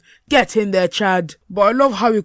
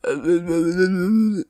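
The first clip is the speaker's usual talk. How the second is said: mock stammering. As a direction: imitate a man mumbling wordlessly. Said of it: "Bossman's like".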